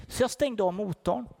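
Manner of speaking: ordinary talk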